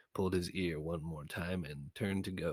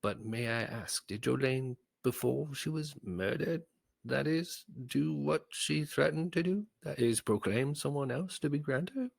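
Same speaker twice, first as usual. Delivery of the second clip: put-on a higher, loud, wheedling old courtier voice; sly old advisor; 8 semitones higher, 5 dB louder than usual. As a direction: probe him slyly, voice pitched up and pushed. Sineas slyly questions Berwick.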